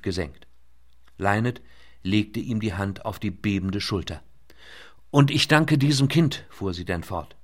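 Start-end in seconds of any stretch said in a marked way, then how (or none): 5.1-6.4 louder, solemn thanks; earnest young woman. A narrator's reading. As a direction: speak with respectful gravity. Lynette thanks the old man.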